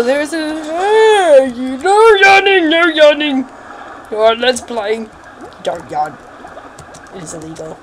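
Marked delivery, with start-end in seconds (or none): 0.5-3.5 high, loud mock telling-off; loud playful scolding; scolding shout. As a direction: bark it like a strict parent. Scolding the yawning character.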